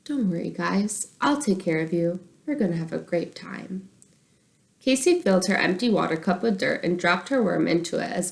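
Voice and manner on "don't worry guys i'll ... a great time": softer, soothing reassurance; calm the fish gently. Acted. Boy comforting his fish in the bowl, soothing. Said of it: "he said in a soothing voice".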